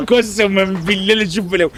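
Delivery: laughing through the repeat. Real, not acted. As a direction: repeat it while cracking up. Repeats line laughing second time.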